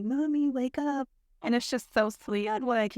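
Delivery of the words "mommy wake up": put-on child's voice. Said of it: "she'll say".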